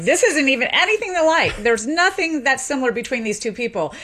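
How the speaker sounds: a touch of courtroom indignation; lightly voiced expert insisting; emphatic linguist. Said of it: "a linguist got on the stand and was like".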